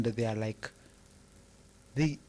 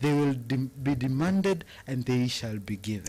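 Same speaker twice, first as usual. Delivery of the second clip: American-style accent. Shown as a demonstration. Asked by her cohost to repeat it, American accent. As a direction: redo it in the put-on American accent. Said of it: "what, what do that again, darling".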